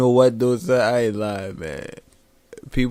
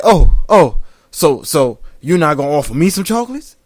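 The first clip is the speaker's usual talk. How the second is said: put-on indignant old man; 3 semitones higher, 8 dB louder than usual. Quoting the old vet.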